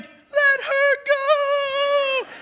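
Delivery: high, drawn-out shout of let her go; commanding shout. Retold or imitated. Friend Johnny ordering the attacker to release the woman, loud and drawn out. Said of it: "Johnny's like".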